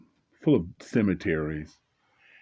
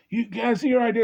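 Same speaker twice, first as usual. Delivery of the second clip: cop voice; 6 dB louder than usual. Retold or imitated. Cop speaks from car.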